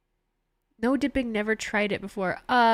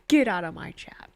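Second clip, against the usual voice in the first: breathy mock whisper, playful; 3 semitones lower than usual. Streamer teasing a Niners fan in chat, whispering.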